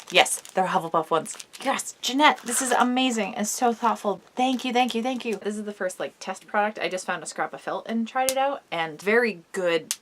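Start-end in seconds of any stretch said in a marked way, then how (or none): 1.6-5.4 gushing thanks. Real, not acted. Thanking friend after gift.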